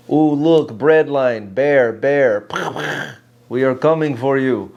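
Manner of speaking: deadpan mock Russian accent; flat, emotionless Russian accent. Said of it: "talk in Russian accent".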